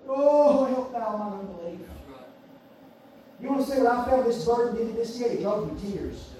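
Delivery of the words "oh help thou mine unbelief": tearful plea, imitated. Imitating a weeping father begging Jesus for help, sinking plea. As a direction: let the father's cry subside into pleading. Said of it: "with tears running down his eyes".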